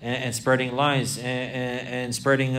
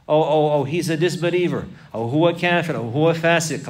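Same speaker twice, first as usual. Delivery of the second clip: louder accusing cry, imitating a harsh man; mock accusation; 2 semitones higher, 4 dB louder than usual. Man accusing his Muslim brother of disbelief, mock harsh. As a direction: hurl the label like an accuser. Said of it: "like this".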